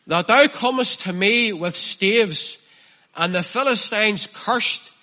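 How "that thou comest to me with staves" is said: mocking Goliath. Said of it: "Listen to the way he speaks to David".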